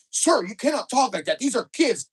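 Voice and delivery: high, loud scolding; stern rebuke. Retold or imitated. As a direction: shout down an unruly parent. Official rebukes yelling dad.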